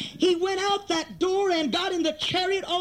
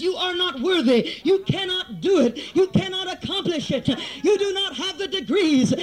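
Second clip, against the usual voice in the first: emphatic, driving sermon delivery; forceful preaching; 2 semitones higher than usual. Real, not acted. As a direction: hammer out each phrase to the congregation. Preacher hammers out each phrase.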